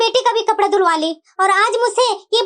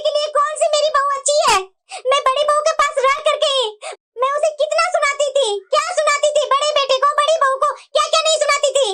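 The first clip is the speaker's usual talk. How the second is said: slightly higher, on the edge of tears; a touch of crying in the voice as she admits her faults; tearful; 3 semitones higher than usual. Acted. Mother-in-law tearfully recounts regrets. (हल्का रोते हुए)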